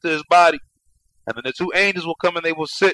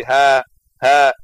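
pained groan; 5 dB louder than usual. Shown as a demonstration. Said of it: "continues to say".

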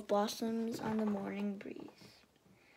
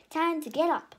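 eager wake-up; 6 semitones higher, 8 dB louder than usual. A narrator's reading. Girl waking her brother.

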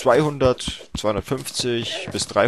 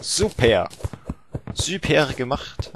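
sarcastic praise; 4 semitones higher, much slower than usual. Real, not acted. Sarcastic praise after a mistake.

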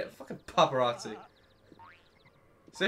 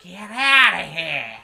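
yelled dismissal; 3 semitones higher, 9 dB louder, slower than usual. Real, not acted. Yelling at the game.

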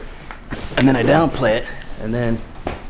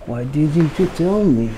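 put-on French accent; 4 semitones higher, slower than usual. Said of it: "What was that accent?".

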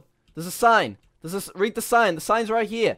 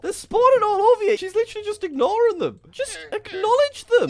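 exasperated; 14 semitones higher than usual. Real, not acted. Llama ignoring boats.

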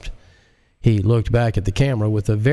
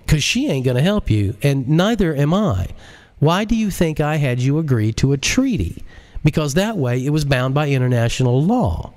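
higher, forceful lecturing voice; 6 semitones higher than usual. Acted. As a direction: lay down the law to him. JL lectures the president.

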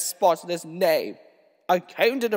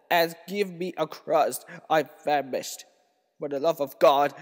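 weak, soft, moaning plea; a starving wife moans for a crust, a touch of groaning; faint moan; 2 semitones lower, 4 dB quieter than usual. Retold or imitated. Dying wife begs her husband for bread, soft moaning. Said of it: "she groaned".

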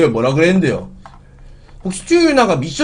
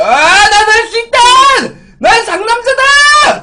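high, loud self-pep yell; loud hype shout; 7 dB louder, slower than usual. Real, not acted. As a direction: shout to psych yourself up. Psyching up to eat spicy.

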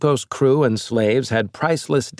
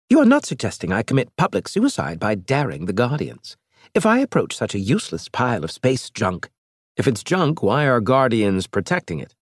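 higher-pitched alien envoy, scornful; lightly raised alien voice; alien Elge; 3 semitones higher than usual. Acted. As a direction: play the proud alien mocking the captain.

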